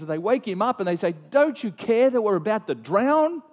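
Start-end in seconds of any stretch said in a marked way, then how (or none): 1.3-3.4 higher, louder, slow frantic plea; panicked disciples shouting over the storm; desperate plea. Retold or imitated. Disciples wake Jesus in storm.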